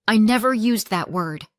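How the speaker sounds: snapped. Acted. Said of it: "she snapped".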